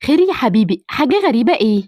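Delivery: put-on older mother voice. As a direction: speak as the doting mother.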